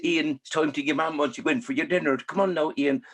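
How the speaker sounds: mimicking a mum. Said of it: "I say".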